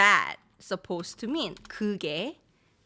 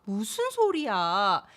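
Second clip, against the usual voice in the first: disbelieving; much faster than usual. Shown as a demonstration. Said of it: "It's stronger. You can't believe".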